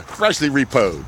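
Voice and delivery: slow, drawn-out "Freshly repoed"; slow drawn emphasis. Shown as a demonstration. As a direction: let "Freshly repoed" stretch out slowly. Repeating the selling point.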